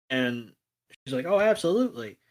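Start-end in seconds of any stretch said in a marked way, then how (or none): 1.3-2.2 put-on eager little girl. Little girl voiced in recap.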